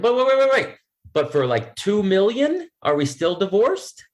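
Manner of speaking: mock pleading with his wife over the money, excited; excited protest. I'm like, joking protest.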